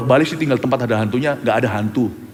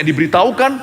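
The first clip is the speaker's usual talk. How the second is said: ordinary delivery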